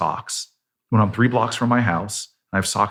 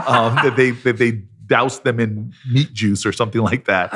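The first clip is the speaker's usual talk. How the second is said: laughing through the words at own mistake; 3 semitones higher than usual. Real, not acted. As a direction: giggle your way through the confession. Laughing while confessing the fries.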